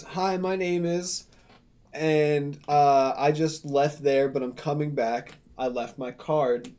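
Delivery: slow, measured caller giving details; imitating a slow-paced caller; retold unhurried phone voice. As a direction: retell the call at a deliberate, slowed pace. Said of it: "she said it just about as fast as I just said it to you now".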